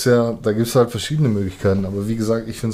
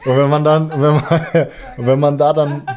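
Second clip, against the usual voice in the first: laughing; 3 semitones higher than usual. Real, not acted. Laughs while explaining.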